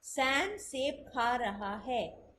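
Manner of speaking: slow, careful example sentence; Sam सेब खा रहा है spoken slowly; slow demo sentence. Shown as a demonstration. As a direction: say it slowly word by word. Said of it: "अगर मैं पढ़ूंगी तो मैं इसको डिफरेंटली बोलूंगी".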